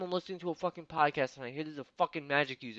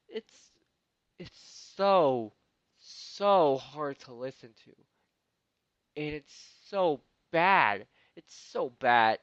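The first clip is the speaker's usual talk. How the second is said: exasperated groan; 4 dB louder, slower than usual. Real, not acted. Exasperated drawn-out complaint.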